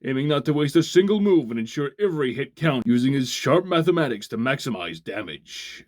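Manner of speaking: declaimed character profile, emphatic line openings; dramatic bio read. Acted. Reviewer reading Pitfall's bio to viewers, dramatic announcer read. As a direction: announce a toy's fighter profile with gusto. Reads the toy bio aloud.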